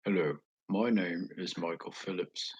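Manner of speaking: attempted English accent, introducing himself. Shown as a demonstration. Streamer trying accents for viewers, English accent. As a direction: try an English accent on a formal hello. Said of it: "try doing an English accent".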